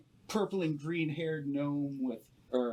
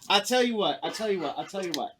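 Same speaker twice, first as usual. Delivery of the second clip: louder, higher huckster voice; a gnome merchant pushing his trade, louder; haggling gnome; 7 semitones higher, 7 dB louder than usual. Acted. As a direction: keep cutting in with a sales hook.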